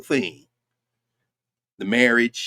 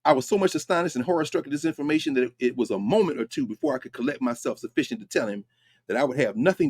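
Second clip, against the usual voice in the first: brisk re-reading; 3 dB quieter than usual. Shown as a demonstration. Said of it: "he says, he says".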